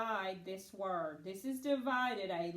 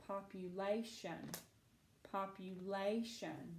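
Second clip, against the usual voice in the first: low, soft "Population", leaning on the "la"; stress on third syllable; 3 semitones lower, 5 dB quieter than usual. Shown as a demonstration. Teacher repeating Population to find the accented syllable, stress on third syllable. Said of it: "Accent is right here".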